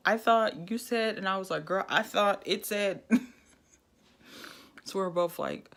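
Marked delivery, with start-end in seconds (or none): 1.7-3.2 laughing through the words; sheepish giggly admission. Retold or imitated. Admitting the mix-up to her friend, laughing.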